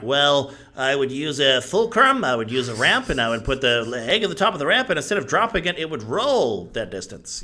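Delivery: hammed-up physics answer, deliberate and emphatic; physics know-it-all. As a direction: act out an over-explained riddle solution, pitch swooping up. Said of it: "physics answers where it's just like".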